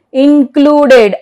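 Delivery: "Included" ending in a full "ded"; pronounced E. Shown as a demonstration. Teacher shows E after D, "Included" with full E. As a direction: sound the last E in "Included", in-clu-ded. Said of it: "but here it is pronounced".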